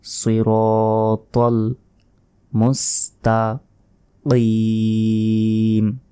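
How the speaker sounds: মুস্তাকিম drawn out slowly in recitation style; slow, careful মুস্তাকিম; correct tajweed. Shown as a demonstration. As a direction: stretch মুস্তাকিম with a heavy ক. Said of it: "তোয়াল নয়".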